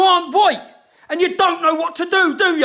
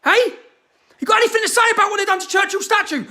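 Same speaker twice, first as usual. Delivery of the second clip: angry challenge; 5 semitones higher, faster than usual. Real, not acted. Ranting at celebrities over statue.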